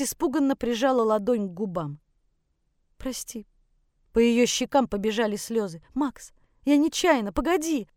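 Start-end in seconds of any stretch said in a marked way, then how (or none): 3.0-3.5 hushed, frightened sorry; shocked apology. Acted. Mother shocked after slapping him. 5.9-7.9 high, distressed plea; pleading. Acted. Tearful mother pleads after slap.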